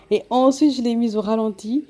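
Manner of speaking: slowed-down voice; slow motion. Real, not acted. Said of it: "je suis en train de parler au ralenti".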